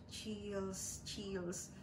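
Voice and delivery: faint, weak voice just after surgery; weak whisper. Retold or imitated. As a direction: barely get the word out, drained. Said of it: "whisper lang yung narinig nila". (mahinang bulong)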